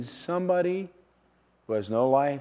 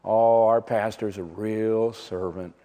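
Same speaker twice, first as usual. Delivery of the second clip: lightly voiced churchgoer, slow and lower; admiring churchgoer; 5 semitones lower, slower than usual. Congregant praising the pastor's servanthood, admiring. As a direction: draw it out in slow, low admiration. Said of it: "sometimes I hear".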